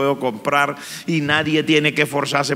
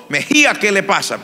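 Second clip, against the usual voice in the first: a louder, higher call of the teacher's question; 7 semitones higher, 4 dB louder than usual. Retold or imitated. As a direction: call his name as if waking him. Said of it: "el profesor me despertó". (el profesor llamando más alto y fuerte)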